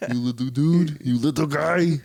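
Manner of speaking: puppy voice. Acted. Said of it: "in, like, puppy voices".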